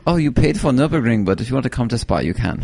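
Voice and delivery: lightly put-on German accent, dropping away; mock German accent. Mimicking a friend's German impression, mock German accent. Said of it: "you're sounding like".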